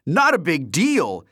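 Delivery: high, loud, slow echo; incredulous cry. A narrator's reading. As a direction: cry out in disbelief. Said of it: "he cried".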